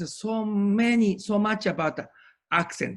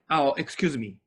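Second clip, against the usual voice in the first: lightly voiced courteous interruption; polite interruption; 3 semitones lower than usual. Shown as a demonstration. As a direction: gently cut in to ask for repeat. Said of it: "at the time I can do like this".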